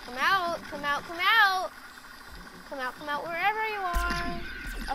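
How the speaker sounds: teasing sing-song call; sing-song taunting. Pretend. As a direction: coax them out like hide and seek. Taunting hidden enemy in game.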